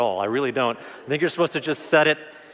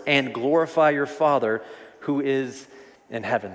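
scripture reading; 2 semitones higher than usual. Acted. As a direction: read it out like holy words, measured. Reads scripture verses aloud.

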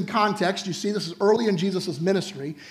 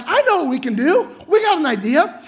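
excited plotting; 4 semitones higher, 3 dB louder than usual. Pretend. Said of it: "These guys like".

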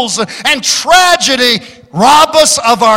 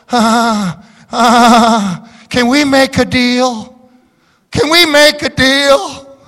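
wispy voice; 2 semitones higher, slower than usual. Retold or imitated. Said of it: "saying in a wispy voice".

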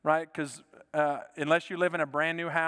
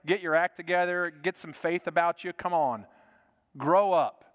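a hint of a scolding parent; lightly scold, building to louder on grow up; mock scolding; 4 dB louder than usual. Imitating a mentor scolding a believer, mild scold. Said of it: "not a parent or an uncle or a mentor scolding you".

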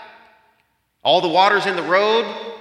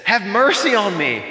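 an earnest plea for mercy, a little louder; pleading cry; 5 semitones higher, 4 dB louder than usual. Retold or imitated. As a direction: beg for mercy as Job would. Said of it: "Job is just weeping and he's crying out".

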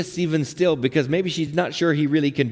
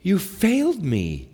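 slow, wounded reproach; retold reproach, deliberately paced; accusation; slower than usual. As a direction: accuse someone who let you down, drawing out each phrase. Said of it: "There's this accusation".

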